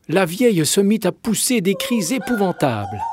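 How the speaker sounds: high, dramatic narration of the screams; alarmed telling. A narrator's reading. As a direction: tell the screams with horror. Narrator describes horrible screams.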